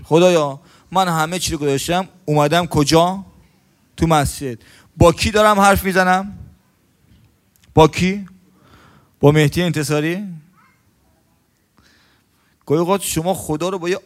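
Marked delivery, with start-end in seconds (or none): 0.0-10.2 louder pleading prayer to God; praying aloud. Retold or imitated. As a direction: call out to God, raised. Worshipper addressing God in mosque. (دعای بلند و پرشور)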